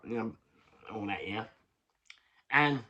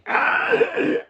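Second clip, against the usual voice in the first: a short, very high and loud laughing cry; a sudden high laugh that sounds like a cry; shriek of laughter; 10 dB louder than usual. Real, not acted. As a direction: squeal with laughter. Laughing at the missing-person idea.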